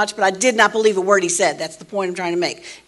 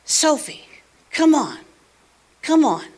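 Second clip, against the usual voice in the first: higher and coaxing call to a pet; calling a bird; 6 semitones higher, 3 dB louder than usual. Retold or imitated. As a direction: lure her down from the tree.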